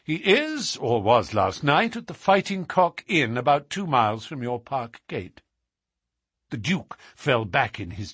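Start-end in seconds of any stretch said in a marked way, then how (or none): 0.0-5.4 higher-pitched confident detective; assured, declarative Holmes. Acted. Holmes claims the reward from the Duke, assured. Holmes reveals the son's whereabouts.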